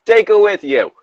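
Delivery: high, put-on redhead voice; fiery redhead. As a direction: urge it high as the fiery friend. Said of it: "a fiery redhead".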